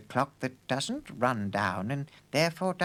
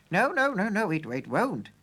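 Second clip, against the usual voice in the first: flustered denial; 5 semitones higher, 4 dB louder than usual. A narrator's reading. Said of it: "said the Professor".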